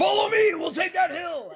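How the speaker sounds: put-on high, barky, yelly, confident young voice. Imitating a twenty-year-old Marine leading a charge: imitating a young Marine. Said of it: "the twenty-year-old Marine that's like".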